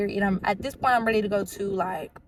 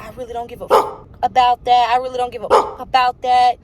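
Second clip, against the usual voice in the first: louder, insistent imitation of anger; retold anger; 2 semitones higher, 6 dB louder than usual. Drunk man dismissing her boyfriend, loud mock anger. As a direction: imitate him pushing back forcefully. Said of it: "he starts getting so mad".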